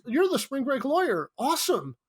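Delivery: high, mock-enthusiastic frat bro; frat boy line. Actor running his frat boy line, high mock enthusiasm. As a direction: read the line like a dumb cheerful fan. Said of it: "Wait, my line is".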